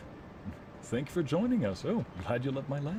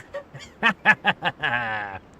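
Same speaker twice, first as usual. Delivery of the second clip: character laugh; 2 semitones higher, 7 dB louder than usual. Acted. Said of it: "that's how she laughs".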